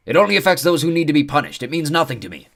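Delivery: high, loud matter-of-fact creature; lofty centaur. Acted. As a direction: explain it like it's nothing. Centaur explains calmly.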